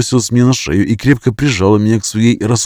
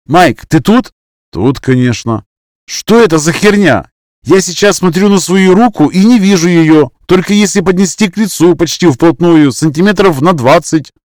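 raised voice, higher, calling into the fog; 8 semitones higher, 5 dB louder than usual. Acted. Max calls to his friend lost in the fog, raised voice. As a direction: shout into the grey murk to find your friend.

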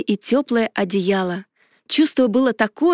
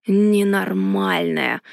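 dragon yell; 3 semitones lower, slower than usual. A narrator's reading. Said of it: "заорал чешуйчатый".

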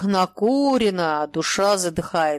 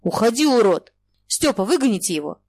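loud furious shout at the fool; stamping shout; 3 semitones higher, 4 dB louder than usual. Acted. Shura drives the holy fool out with a loud yell. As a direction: yell at him while stamping. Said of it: "топая на блаженного".

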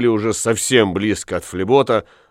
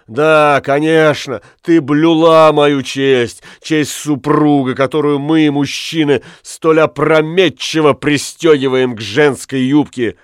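louder, slowed biting irony; bitter sarcasm; 3 semitones higher, 4 dB louder than usual. Acted. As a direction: sneer at her virtue. Husband sarcastic to wife.

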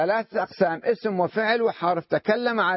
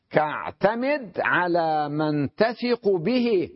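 very slow, word by word; slow recitation of the verse; much slower than usual. Shown as a demonstration. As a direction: lay out each word of the line slowly for the class. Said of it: "قال". (إلقاء بطيء لبيت الشعر)

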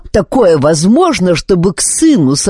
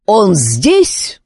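yell; 4 semitones higher than usual. Acted. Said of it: "заорал Друд-командор".

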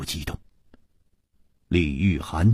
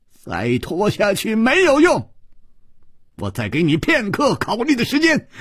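threatening shout; 11 semitones higher than usual. A narrator's reading. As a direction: shout the ultimatum. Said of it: "李玉涵说".

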